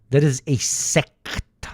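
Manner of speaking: "is" leaned on, slow and deliberate; slow, insistent "That IS a sect"; stress on is. Pretend. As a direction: hit "is" firmly in "That is a sect". Repeats with is stressed.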